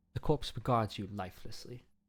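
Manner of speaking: terrible, soft, put-on London accent. Retrying a line in someone's accent after calling the first try terrible, terrible London accent. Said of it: "I can't do her accent".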